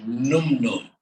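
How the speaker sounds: Num Num slow, each syllable drawn out; slow, careful Num Num, like teaching a name; Arabic name said carefully. Shown as a demonstration. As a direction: give Num Num its proper Arabic sound. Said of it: "I'm gonna tell you her first name".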